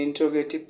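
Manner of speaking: इंट्रोगेटिव said in-tro-ge-tiv; इंट्रोगेटिव with t and r joined as "tro"; common mispronunciation. Shown as a demonstration. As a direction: drop the "te" syllable in इंट्रोगेटिव. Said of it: "बहुत से लोग इसको इंट्रो कहते हैं".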